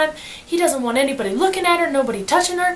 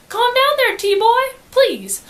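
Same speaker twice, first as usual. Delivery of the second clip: frantic pleading; 10 semitones higher, 4 dB louder, much slower than usual. Retold or imitated. Pleading with attacker.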